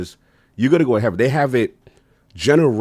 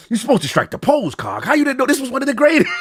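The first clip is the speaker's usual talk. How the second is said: calling out; faster than usual. Retold or imitated. Peter Moore calling him out.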